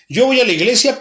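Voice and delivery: mock bargaining churchgoer.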